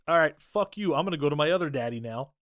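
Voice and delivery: loud, mildly mocking retold anger; pissed off. Daughter storming off from her dad, mock pissed. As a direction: fire it off as an angry brush-off. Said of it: "she's pissed".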